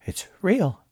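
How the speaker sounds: breathless whispered realization; stunned into a hush; awed whisper. A narrator's reading. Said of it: "Moss muttered".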